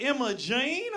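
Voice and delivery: high, lilting Southern voice; Southern sweetheart. Acted. Hostess introducing herself, sweet Southern accent. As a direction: say the name with a Southern lilt. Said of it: "That's Southern as shit".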